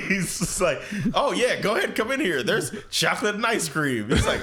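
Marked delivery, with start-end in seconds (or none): 1.1-4.1 lightly higher sly villain voice; Frieza voice. Retold or imitated. Frieza luring Goku with ice cream, high mock coaxing. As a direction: coax him in, mock sweet.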